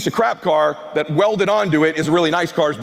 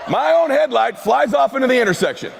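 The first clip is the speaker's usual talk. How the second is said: excited shouting; 6 semitones higher than usual. Real, not acted. Speaker to the crowd, confessing his headlight flew off, shouting excitedly.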